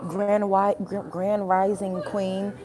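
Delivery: slow, drawn-out mocking imitation; mock affected talk. Mocking women who say "king" online, slow mock-affected delivery. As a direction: draw it out, mocking how they talk. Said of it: "who really talks like that".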